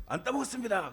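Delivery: high, loud innocent denial; a child insisting to the teacher he ate no honey; pupil's high protest. Retold or imitated. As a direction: squeak out a guilty denial.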